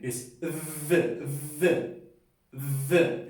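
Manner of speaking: "the" with a voiced, buzzing th, tongue between the teeth; "the" sounded strongly, the th clearly voiced. Shown as a demonstration. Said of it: "es sonora".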